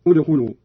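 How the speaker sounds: "ادخلوا" begun with a clear u: udkhulu; damma start. Shown as a demonstration. Teacher showing how to begin the word, "ادخلوا" opening on u. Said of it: "والبدء بالضم عندما نبتدئ كلمة".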